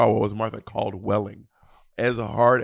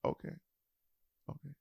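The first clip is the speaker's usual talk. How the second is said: mom's voice; 5 semitones higher, 3 dB louder, faster than usual. Retold or imitated. Mom complains about last visit, mock put-out. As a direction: imitate a mother keeping score. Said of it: "She goes".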